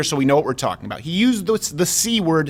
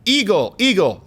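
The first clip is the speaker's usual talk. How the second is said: high squawking bird calls, then a flat "eagle, eagle"; mockingbird cawing; 8 semitones higher than usual. Mocking an alt comedian doing a mockingbird imitating an eagle. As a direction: caw like a bird doing spoken bird poetry. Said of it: "That was a mockingbird, uh, doing an impersonation of an eagle".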